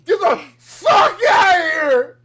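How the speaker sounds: high, loud hammed-up shout; mock furious yell. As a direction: scream them out of the store. Voicing the angry employee.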